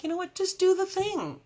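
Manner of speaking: high, rising pep-talk push; self pep talk. Retold or imitated. To herself about trying something new, high pep talk. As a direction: talk yourself into it, pitch climbing.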